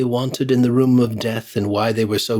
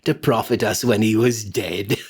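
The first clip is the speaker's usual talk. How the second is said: put-on higher gloating old woman's voice; gloating charwoman; 13 semitones higher than usual. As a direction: crow over the spoils. Charwoman gloats over the money.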